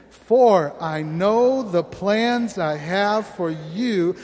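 slow, measured recitation of "For I know the plans"; congregational reading. Real, not acted. Pastor leading the church in reading scripture, slow. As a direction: read the verse slowly in unison. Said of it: "read this out loud together".

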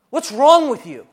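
"What's wrong with you?" shouted high and loud, leaning on "wrong"; loud accusing "What's wrong with you?" stressed on "wrong"; accuser yelling. Acted. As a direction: scream "What's wrong with you?" in their face with contempt. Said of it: "is screaming at your face".

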